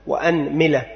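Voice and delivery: أنملة with fatha on the hamza and kasra on the mim, anmila; vowel demo. Shown as a demonstration. Teacher listing the variant for students, careful anmila. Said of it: "أولا فتح الهمزة".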